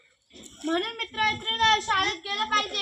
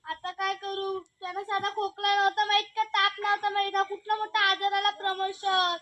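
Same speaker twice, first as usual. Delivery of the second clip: lament; 5 dB quieter than usual. Acted. Wife keeps lamenting.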